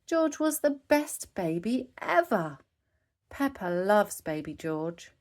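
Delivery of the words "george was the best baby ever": very high giggle into a high proud line; high squeaky piglet giggle and brag; toddler giggle. A narrator's reading. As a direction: giggle like a delighted tiny sister. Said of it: "Peppa giggled".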